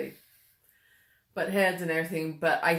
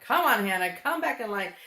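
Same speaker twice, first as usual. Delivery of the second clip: calling out; 3 semitones higher, 5 dB louder than usual. Retold or imitated. Mom calling daughter back.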